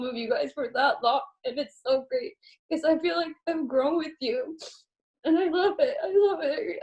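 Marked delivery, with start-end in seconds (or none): 5.2-6.8 real tears breaking through a laugh; laughing and crying at once, overwhelmed with gratitude; tearful laughing. Real, not acted. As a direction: speaker thanking her team through tears. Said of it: "that's something that's so emotional".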